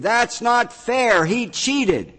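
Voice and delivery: high, loud indignant protest; loud whiny outrage; irate. Acted. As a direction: shout it like a sore loser. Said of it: "became irate".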